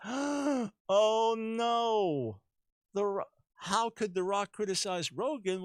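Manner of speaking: mock shock. Mock outrage of modern critics.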